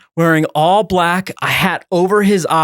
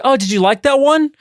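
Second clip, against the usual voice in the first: high, hopeful asking; eager high question; 10 semitones higher than usual. Pretend. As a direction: fish for approval.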